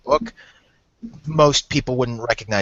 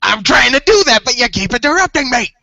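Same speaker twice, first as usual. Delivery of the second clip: mock annoyed; 9 semitones higher, 8 dB louder than usual. Reader snaps at heckler.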